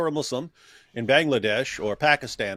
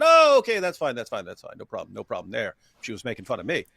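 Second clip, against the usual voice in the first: mock casual dismissal; faster than usual. Retelling the prophet brushing off a killing, mock casual. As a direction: wave it off, mockingly unconcerned. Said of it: "Muhammad said".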